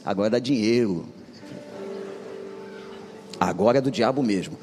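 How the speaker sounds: low command from within; inner voice demanding. Retold or imitated. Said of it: "a vozinha voltou e disse assim". (voz interior grave e firme)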